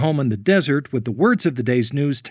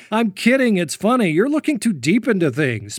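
laughing; 5 semitones higher than usual. Real, not acted. Laughing off accusation.

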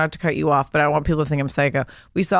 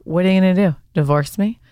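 mock taunting; 2 semitones higher than usual. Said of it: "like, in that tone".

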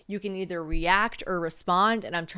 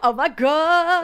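gasp, then a slow, loud stretched oh my God; floored by the news, drawn right out; gasping loud amazement; real astonishment; 6 semitones higher, 9 dB louder, much slower than usual. Real, not acted. Reacts to friend's news.

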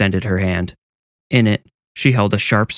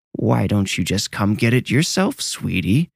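haggard voice. Acted. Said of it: "the haggard voice asked".

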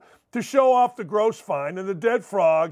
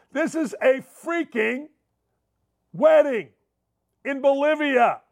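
exasperated shout; 5 semitones higher than usual. Real, not acted. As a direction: shout it in disbelief. Exasperated emphasis.

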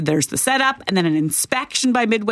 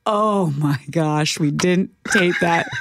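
dismayed; 6 semitones lower, slower than usual. Retold or imitated. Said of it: "I look at Clay and I go".

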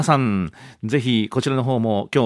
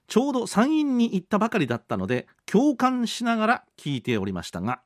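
lifted, higher radio reading voice; reading listener mail; 8 semitones higher than usual. Acted. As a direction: read it out as a quoted letter. Reads listener mail aloud.

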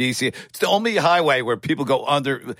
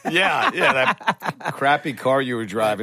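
laughing; slower than usual. Real, not acted. Laughing at the old car.

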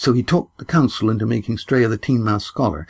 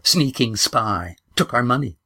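put-on rising, higher old woman's accusing list; grandmother's accusation; 4 semitones higher than usual. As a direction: pile up the charges, climbing higher. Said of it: "spat the grandmother".

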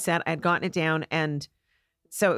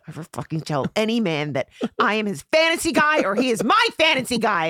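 mock outrage, building higher and louder; exasperated scolding; 4 semitones higher, 3 dB louder than usual. Boyfriend to girlfriend after her gaffe, mock outraged scolding. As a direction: scold as the mortified boyfriend, hitting it harder toward the end.

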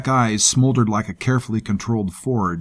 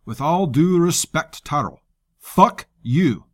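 put-on harsh Jarl accent; 6 semitones higher than usual. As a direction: spit it out in a gruff Jarl accent. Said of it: "Jarl's accent added even more harshness".

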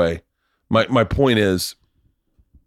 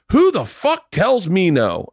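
indignant boss; 7 semitones higher, slower than usual. Retold or imitated. Manager outraged at being refused.

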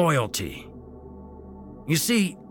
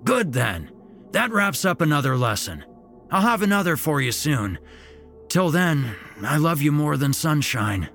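higher, chipper grandpa, cheer back; perked up; 8 semitones higher, 3 dB louder than usual. A narrator's reading. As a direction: brighten up fast. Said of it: "Pop Pop quickly perked up".

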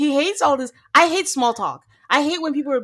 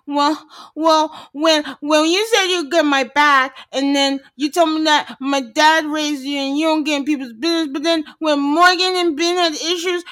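whining; 4 semitones higher, 4 dB louder than usual. Retold or imitated.

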